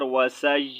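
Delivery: وسائی ending on a light held y sound; light final ya. Shown as a demonstration. Teacher showing how to stop on ya, light-ending demonstration. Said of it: "ہلکی سی یا کی آواز نکالیں گے".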